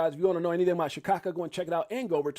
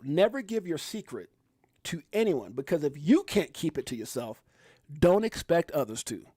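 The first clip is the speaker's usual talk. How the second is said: slow, deliberate reading with pauses; careful slow read-out; read slowly. Shown as a demonstration. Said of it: "I gotta read it slow".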